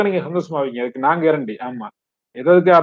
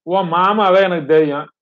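higher-pitched, insistent reasoning; consoling; 5 semitones higher than usual. Acted. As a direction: talk a grieving friend round in a raised pitch. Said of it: "அப்படின்னு ஆறுதல் சொல்றாங்க நசுருதீனுக்கு".

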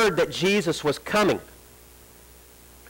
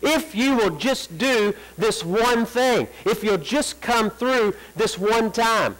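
higher, slow begging for one favour; mock pleading prayer; 5 semitones higher, slower than usual. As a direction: plead slowly, pitched up. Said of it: "Our prayer is".

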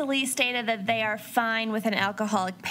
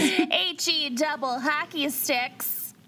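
put-on Minnesotan accent; 4 semitones higher, slower than usual. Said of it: "unleash their worst Minnesotan accents".

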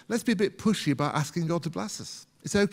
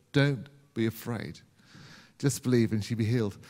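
gentle reassurance; 5 semitones lower than usual. Shown as a demonstration. Preacher speaking Jesus' words to discouraged listeners, low and gentle.

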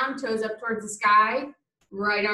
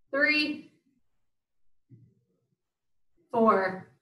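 doing crunches; much slower than usual. Real, not acted. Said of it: "My abs are burning".

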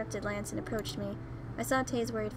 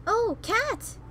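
high, loud "oh" of discovery; sudden realization; 11 semitones higher, 6 dB louder than usual. Real, not acted. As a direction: blurt it out as it clicks.

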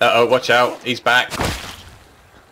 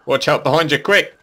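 urgent warning; 5 semitones higher than usual. Real, not acted. Warning a teammate of an attack.

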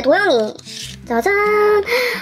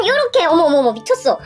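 excited fangirl; 8 semitones higher than usual. Real, not acted. Fangirling over photocard.

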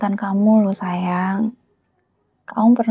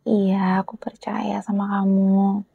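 soft, close whisper; tender whisper; 4 dB quieter than usual. Acted. Girlfriend reassuring her boyfriend she trusts him, whisper. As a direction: whisper your trust gently.

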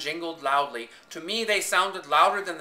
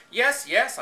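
quick, high, louder eager yes; eagerly; 9 semitones higher, 7 dB louder than usual. A narrator's reading. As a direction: jump at the chance. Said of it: "I answered eagerly".

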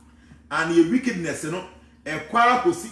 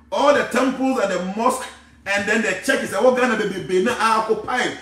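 loud, raised-pitch indignant sermon; impassioned preaching; 6 semitones higher, 6 dB louder than usual. Real, not acted. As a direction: drive the complaint home forcefully. Impassioned complaint about churches and mosques.

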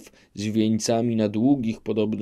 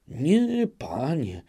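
a high, glad burst on nie; eager relief, lightly voiced; joyful cry; 6 semitones higher, slower than usual. Old man gladly assuring the knight, mild joy. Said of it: "zawołał z radością dziad".

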